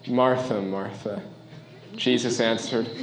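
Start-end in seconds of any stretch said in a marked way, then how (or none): 0.1-1.2 gentle repeat. Shown as a demonstration. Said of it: "he says it like that".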